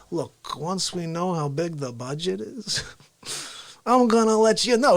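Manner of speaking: laid-back New York attitude; Cuomo. Retold or imitated. Governor putting off a budget question, laid-back New York impression. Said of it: "this laid-back New York attitude".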